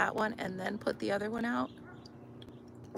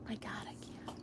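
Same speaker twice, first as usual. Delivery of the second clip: whispering; 12 dB quieter, much faster than usual. Real, not acted. Whispering, overcome with laughter.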